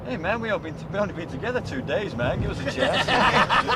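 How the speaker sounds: laid-back jive plea, slowing and laughing at the end; hammed-up cool guy begging for a chance; mock hipster voice breaking into a laugh; imitating the dancer. The act pleads.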